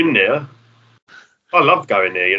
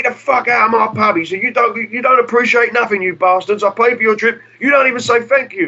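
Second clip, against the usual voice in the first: ranting landlord; 11 semitones higher than usual. Retold or imitated. Jack accusing the band of never thanking him, imitated rage. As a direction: rant like an ungrateful-kids landlord. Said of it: "He's like".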